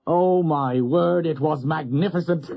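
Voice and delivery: high, slow, amused exclaim; laughing delight. Acted. Doctor recalling the brawl, high amused delight. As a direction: relish the memory with a chuckle. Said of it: "He laughed again in genuine amusement".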